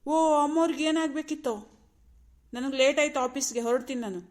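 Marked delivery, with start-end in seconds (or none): 0.0-1.5 high, loud mock-servile question; sarcastic. Husband asks what her ladyship needs, sarcastic. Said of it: "ಯಾಕೆ ಇಷ್ಟೊಂದು ವ್ಯಂಗ್ಯವಾಗಿ ಮಾತಾಡ್ತೀರಾ?".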